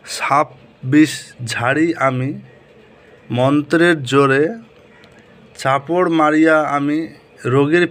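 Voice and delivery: the mantra again, very slow and deliberate; slow recitation. Shown as a demonstration. Teacher repeating the charm slowly for students to follow, slow chant. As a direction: spell it out slowly so they can memorise it. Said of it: "মন্ত্রটা আমি আবারও আস্তে আস্তে বলছি".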